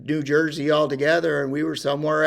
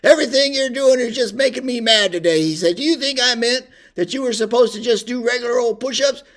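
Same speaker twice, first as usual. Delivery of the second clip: much higher, much louder mock sergeant bark; drill sergeant yell; 10 semitones higher, 6 dB louder than usual. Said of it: "And he says".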